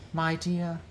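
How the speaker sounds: soft chuckle into a high, purring greeting; gloating laugh. Acted. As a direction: savour meeting your enemy again. Villain gloats over captive.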